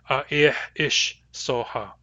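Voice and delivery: A ih ish soha, said slowly; A ih ish soha with the strong-mood ending ish; Nuu-chah-nulth phrase. Shown as a demonstration. Teacher repeating A ih ish soha slowly. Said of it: "strong mood".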